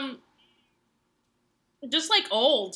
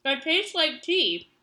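chewing while talking; 4 semitones higher than usual. Real, not acted. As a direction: mouth full while talking. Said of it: "Sorry, I'm chewing".

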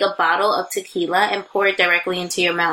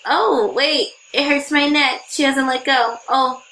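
mock inner voice; 5 semitones higher, slower than usual. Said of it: "I'm like".

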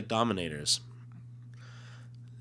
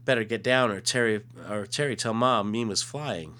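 put-on childlike superhero voice; 3 semitones higher, 4 dB louder than usual. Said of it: "she goes".

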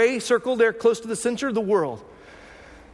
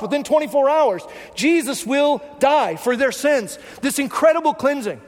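preaching shout; 4 semitones higher than usual. Real, not acted. Preaching climax.

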